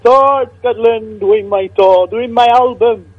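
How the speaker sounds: unconvincing put-on Scottish voice; bad Scottish accent. Fake pop star describes his tour, bad Scottish accent. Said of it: "Is that supposed to be a Scottish accent?".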